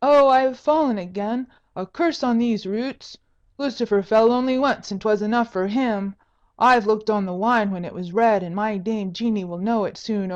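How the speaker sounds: loud whining tipsy singer. Acted. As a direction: whine and complain like a drunk. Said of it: "a whining voice said".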